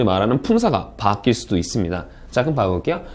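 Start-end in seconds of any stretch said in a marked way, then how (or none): none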